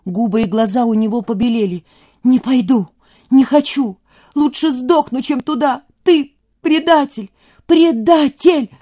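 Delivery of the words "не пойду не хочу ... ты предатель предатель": thin breaking shout. A narrator's reading. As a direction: scream it at your father, voice cracking. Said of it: "закричал тонким, срывающимся голосом".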